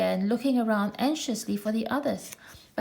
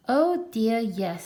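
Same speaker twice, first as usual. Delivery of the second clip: soothing; 3 dB louder, slower than usual. Acted. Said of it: "said Kanga soothingly".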